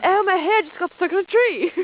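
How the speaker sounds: goofy put-on Australian voice; hammed-up Aussie explorer accent; mock Australian.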